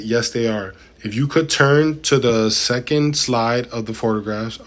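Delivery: measured, deliberate reading voice; transcript read-aloud. A narrator's reading. Streamer reads testimony to chat, deliberate read-aloud. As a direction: read it out word by word, formally.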